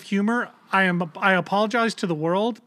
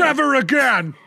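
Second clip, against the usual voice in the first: loud exclamation; 6 semitones higher, 5 dB louder than usual. Real, not acted. Vowing never to go out again.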